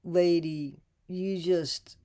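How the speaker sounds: a stunned whisper; whispered disbelief. Real, not acted. Host reacting to the interviewer in whispered disbelief. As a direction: breathe it out in disbelief.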